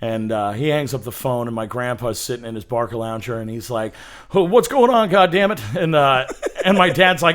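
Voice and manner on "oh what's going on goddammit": lightly voiced irritable old man, pitched up; a hint of aging Rodney Dangerfield; grumpy grandpa impression. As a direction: mimic a crotchety grandfather. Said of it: "your grandpa's an aging Rodney Dangerfield".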